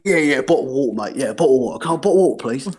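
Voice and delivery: casual British "bottle of water", syllables run together; matey British slang delivery; British accent. Shown as a demonstration. British guy showing how his people order water, casual British accent. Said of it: "for us, it's like".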